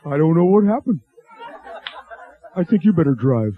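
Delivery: strained, queasy voice; acted stomach distress; feeling sick. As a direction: speak as if the food just hit. Bob suddenly sick from Mexican food.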